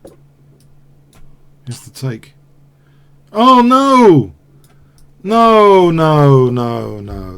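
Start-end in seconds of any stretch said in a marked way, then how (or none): 3.3-7.4 very high, loud wail fading away. Real, not acted. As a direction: wail it, then trail off. Loses to a check, wails.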